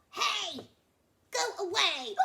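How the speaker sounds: high, loud angry yell; shout. Acted. Crocodile shouting at the flamingo, high and loud. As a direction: chase her off the water.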